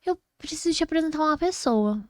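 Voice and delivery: fã animada imitada. Retold or imitated.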